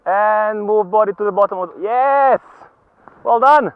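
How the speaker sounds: high, loud encouraging shouts; cheery ski instructor shouting. Real, not acted. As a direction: cheer the skier on from uphill. Instructor calling to skier on slope.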